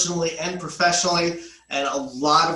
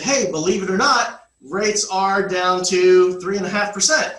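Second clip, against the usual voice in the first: upbeat pitch; 3 semitones higher, 5 dB louder than usual. Retold or imitated. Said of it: "and said".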